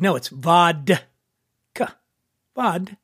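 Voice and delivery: vodka said with a firm D, VOD-ka; friends correcting vodka. Retold or imitated. Friends at the beach correct host, hitting the D in vodka. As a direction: correct him, stressing the D. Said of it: "they're like".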